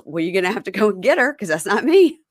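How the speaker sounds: put-on fast, defiant girlfriend; lightly voiced defiant girlfriend; mock girlfriend. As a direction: snap it back fast. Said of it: "And she goes".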